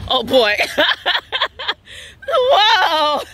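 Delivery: laughing, squealing cheers; excited cheering. Real, not acted. Child going down slide, cheering.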